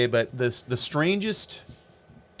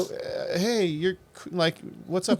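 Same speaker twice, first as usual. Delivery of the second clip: halting, softer retold greeting; hesitant approach; 5 dB quieter, slower than usual. Telling friends how he first approached a rapper, hesitant. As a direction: feel out the question with false starts.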